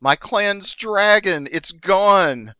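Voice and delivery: high, loud, drawn-out kobold wail; squeaky childlike voice. Acted. Weepy kobold reporting stolen dragon, squeaky and childlike. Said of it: "this squeaky, childlike voice".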